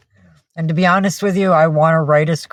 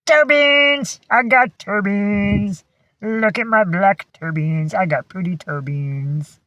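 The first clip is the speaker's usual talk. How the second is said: higher, lightly put-on proud dog voice; voicing the dog; 4 semitones higher, slower than usual. Owner voicing her dog bragging about his paws, high and silly. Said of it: "He says".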